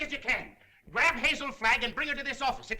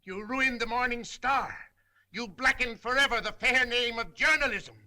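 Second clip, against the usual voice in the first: bitter accusation. Acted. Editor accusing his reporter.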